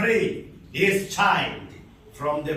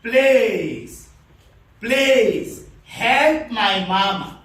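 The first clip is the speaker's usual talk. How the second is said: loud, drawn-out pleas, slightly raised; pleading child's cry; 3 semitones higher, 4 dB louder, much slower than usual. Retold or imitated. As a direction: plead slowly and forcefully for a child. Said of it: "This child is saying".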